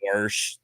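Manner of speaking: grandmother's way of saying wash, "warsh"; low, quiet-ish "warsh"; added R. Retold or imitated. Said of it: "Jen's grandmother would say".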